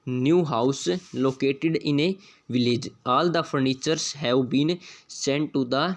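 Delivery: reads the test sentence very slowly, word by word; slow dictation reading. Shown as a demonstration. Teacher reading the question sentence aloud, very slow. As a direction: spell it out slowly for the class.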